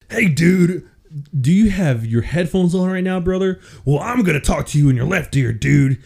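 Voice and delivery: hint of Hulk Hogan; Hulk Hogan impression. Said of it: "what it would sound like if Hulk Hogan".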